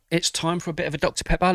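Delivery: playful sing-song. Real, not acted. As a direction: sing it out like a treat. Repeats announcement, playful.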